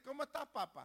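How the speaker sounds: put-on soft, affectionate greeting to a child; acted gentle fondness; pleased parent. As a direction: greet your son softly, pleased with him. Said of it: "Cuando usted está contento con su hijo".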